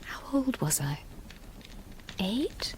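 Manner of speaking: barely voiced, lost in memory; a soft, haunted aside; whispered question. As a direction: whisper it to herself. Painful childhood memory recalled.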